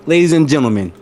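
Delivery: high-pitched announcer hype; announcer call. Acted. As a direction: pitch the hand-off way up. Handing off the show catchphrase.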